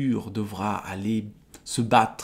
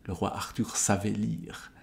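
softer, offhand repeat to oneself; soft commentator's aside; musing aside; 5 dB quieter than usual. Real, not acted. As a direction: drop out of the reading and muse quietly. Intéressant comme remarque.

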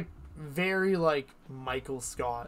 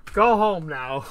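loud, high "go home" at the chat; playful shooing; 3 semitones higher, 10 dB louder, slower than usual. Pretend. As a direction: shoo them off like pests. Streamer shooing viewers away.

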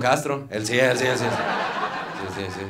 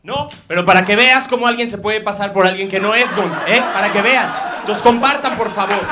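laughing tease; 9 semitones higher, 8 dB louder than usual. Acted. Mock host joke after impersonation.

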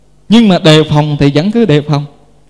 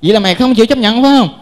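officer's order; 5 semitones higher than usual. Retold or imitated. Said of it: "vị sĩ quan này mới nói".

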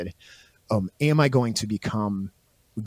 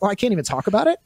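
mock Boromir; 8 semitones higher, much faster than usual. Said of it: "He's like".

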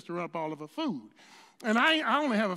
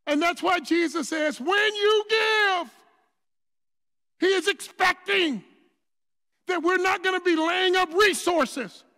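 full-force preaching; 6 semitones higher, 8 dB louder than usual. Acted. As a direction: preach it, drawing out the words and building.

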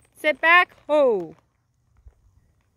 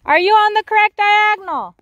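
louder, faster repeat after she missed it; 8 semitones higher, 6 dB louder, faster than usual. Real, not acted. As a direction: call it again so she hears.

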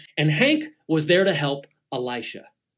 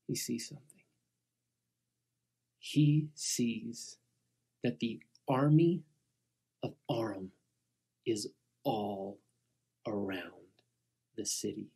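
hushed suspense; 6 semitones lower, 8 dB quieter, slower than usual. A narrator's reading. Tense hushed storytelling.

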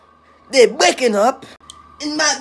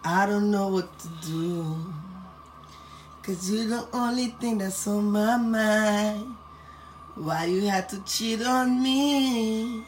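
mock heartbroken plea; slower than usual. Mock heartbroken lament for brother.

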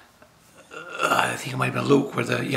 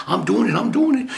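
higher, louder, eager vow; eager promise; 7 semitones higher, 7 dB louder than usual. Pretend. Answering Jesus, eagerly promising to crawl across Canada. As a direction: blurt it out like you mean it.

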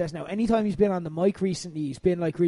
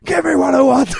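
much higher, much louder shout; shouting again; 7 semitones higher, 9 dB louder than usual. Retold or imitated. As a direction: burst back into the yell. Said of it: "he's like".

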